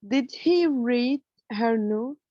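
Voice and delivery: slow, rising tune on "Did he read her note?"; careful classroom reading with a rising end; slow question example. Shown as a demonstration. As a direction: spell out the yes-no question slowly with a rise. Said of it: "the following example".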